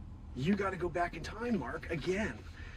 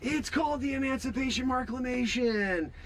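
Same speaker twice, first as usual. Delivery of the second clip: speech voice; 3 semitones higher than usual. Retold or imitated. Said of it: "And I'm saying".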